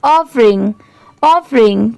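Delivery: ऑफरिंग said as one joined word; blended pronunciation. Shown as a demonstration. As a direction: join ऑफर and इंग into ऑफरिंग. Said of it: "साथ में मिलाकर पढ़ेंगे".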